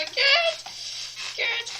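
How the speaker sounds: high, loud urging; will it through; urgent yell. Real, not acted. Gamer yelling at the character to pass.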